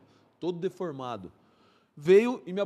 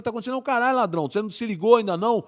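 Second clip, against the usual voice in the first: retold angry retort; 4 semitones higher, 5 dB louder, much faster than usual. Retold angry answer during shootout.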